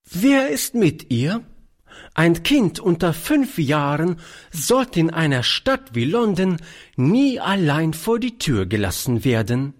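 put-on high, appalled old lady; entsetzt. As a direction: scold in alarm, pitched high. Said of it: "rief das alte Fräulein entsetzt". (entsetztes altes Fräulein)

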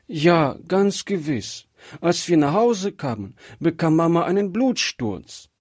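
put-on high child voice, understated distress; a little girl upset, without actual sobs; tearful child. A narrator's reading. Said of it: "bitterlich schluchzende Kind". (hohe, verhalten bekümmerte Kinderstimme)

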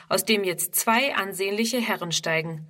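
ordinary delivery

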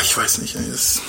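whispered, trailing off. Retold or imitated. Preacher voices Paul overwhelmed by love, whispering. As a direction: let it die into a whisper. Paul's emotional quote trailing.

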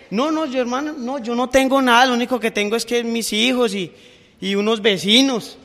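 mock humble protest; pleading excuse. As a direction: whine that you have nothing but neighbours. Preacher voicing believer's excuse.

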